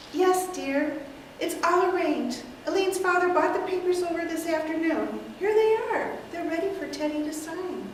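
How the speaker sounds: a lightly voiced sweet aunt; elderly aunt. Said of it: "take several characters".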